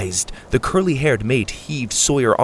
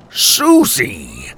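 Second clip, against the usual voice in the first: disbelief; 7 semitones lower, 3 dB louder than usual. A narrator's reading. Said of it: "Grandpa said in disbelief".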